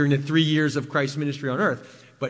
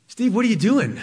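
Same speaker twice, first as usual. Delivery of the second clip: louder, higher, demanding question; loud voice of God; 6 semitones higher, 4 dB louder than usual. Retold or imitated. God confronts Steve in the parking lot, loud and demanding. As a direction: call it out sharply so it stops him. God's question, repeated strongly.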